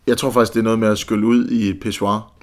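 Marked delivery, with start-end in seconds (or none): 1.8-2.3 pissoir said the French way, pis-SWAR; French pronunciation. Real, not acted. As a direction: pissoir with French vowels, stress on the end. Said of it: "på den der franske måde".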